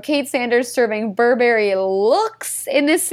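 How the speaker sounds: slow, drawn-out gushing emphasis; all-caps emphasis. Acted. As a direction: read it like an all-caps note. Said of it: "in all caps, I wrote".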